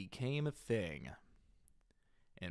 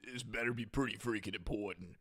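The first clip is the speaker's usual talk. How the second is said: Charlie the Unicorn impression; much faster than usual. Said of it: "trying to do the impression of that".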